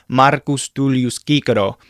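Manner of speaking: TULLIUS with an unaspirated t; no puff on the t of Tullius, hard k in Cicero; dry Latin T. Shown as a demonstration. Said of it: "not a big puff of air".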